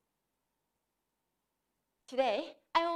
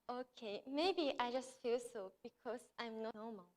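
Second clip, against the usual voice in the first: sad; 7 dB quieter than usual. Retold or imitated. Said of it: "She sounded very sad".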